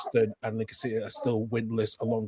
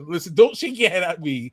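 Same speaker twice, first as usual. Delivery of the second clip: put-on Irish accent; 6 semitones higher, 4 dB louder than usual. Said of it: "Terrible Irish accent".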